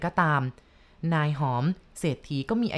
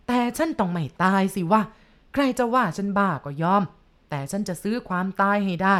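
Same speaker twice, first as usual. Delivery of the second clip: a touch louder, insistent; loud boast. Acted. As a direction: mildly raise the voice in defiance. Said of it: "เศรษฐีหอมพูดเสียงดังลั่นบ้าน".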